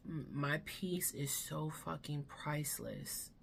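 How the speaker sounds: hushed, unvoiced whisper. Real, not acted. Vlogger confides to viewers in a whisper. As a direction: breathe it out like a secret.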